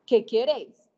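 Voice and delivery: loud sharp question; God shouting. Retold or imitated. God shouts at a desperate woman on her bed, loud. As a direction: call out the question as God did. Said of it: "Y Dios me gritó".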